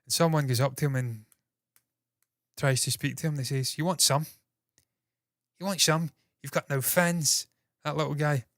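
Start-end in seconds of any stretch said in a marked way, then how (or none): 3.8-7.5 mock Cockney. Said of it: "little English Cockney guy".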